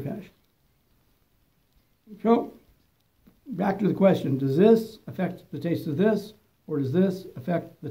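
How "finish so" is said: lips closed around cigar; speaking past held cigar; talking with cigar in mouth. Real, not acted. Seen 0: Cigar held between lips from 1.1s through end of labelled words.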